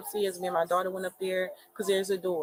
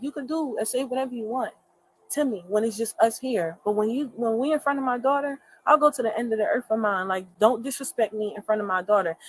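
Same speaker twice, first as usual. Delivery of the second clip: higher, louder, firm protective demand; retold firm demand; 4 semitones higher, 4 dB louder than usual. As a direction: stand your ground for your daughter, voice raised. Retells confronting boyfriend.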